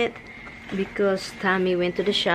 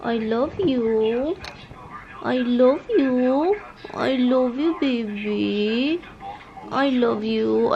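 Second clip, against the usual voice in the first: sweet nothings; slower than usual. Real, not acted. Talking sweetly to her dog.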